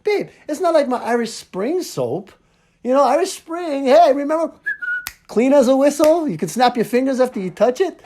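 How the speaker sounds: high-pitched, loud comic pleading; retold insistent protest. Husband defending his Irish Spring to his wife, mock insistent. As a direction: argue the case high and animated, as a re-enactment.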